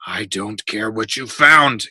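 slow, loud, emphatic dismissal; angry interruption. A narrator's reading. Builder cutting off the boy's excuse, angry interruption. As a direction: cut in, leaning heavily on the words. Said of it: "interrupted Neff".

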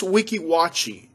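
Weeki Wachee, said as wiki-WAH-chee; pronunciation demo. Shown as a demonstration. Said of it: "It's pronounced".

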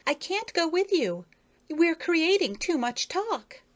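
put-on a coy young lady beetle; Effie, high voice. A narrator's reading.

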